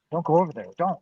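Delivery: mildly emphatic retold warning; urgent warning. Date warning him off the bum by the Jeep, urgent warning. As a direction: quote a partner warning you away.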